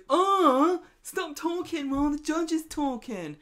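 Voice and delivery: loud, high mock outburst; acted shout of exasperation in court; retold exasperated outburst. Todd stands up, outburst in court.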